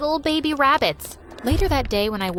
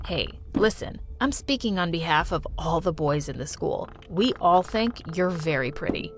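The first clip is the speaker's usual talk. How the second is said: lower, shy schoolboy; teen boy voice; 6 semitones lower, 3 dB quieter than usual. Acted. Schoolboy telling Mia the boys find her pretty, lower voice. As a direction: lower your voice like a nervous boy.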